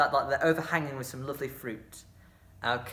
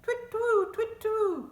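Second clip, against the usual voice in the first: very high hooting owl call; much slower than usual. Shown as a demonstration. Teacher demonstrates the moon action with a high owl hoot. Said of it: "make an owl noise".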